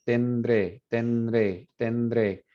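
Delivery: tendré said with the D slipping in naturally between n and r; pronunciation demo. Shown as a demonstration. Teacher demonstrates tendré for students trying it aloud. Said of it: "naturally kind of inserts a D".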